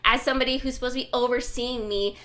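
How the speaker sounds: loud, fast mock indignation; imitated employee telling off the boss; retold angry confrontation. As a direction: rush on through the acted outrage. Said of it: "she's just pissed".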